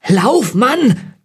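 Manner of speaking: high, urgent yell on both words; desperate shout. A narrator's reading. William to the motionless Vogt before the monster, desperate shout. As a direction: shout it high to jolt someone into fleeing. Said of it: "schrie William noch einmal".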